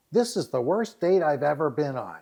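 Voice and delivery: lightly voiced whiny complaint; acting out a fed-up date; complaining city girl. City girl griping on a bad blind date, complaining. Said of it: "you hear her voice. And she goes".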